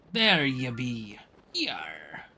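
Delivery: slow whispered pirate. Acted.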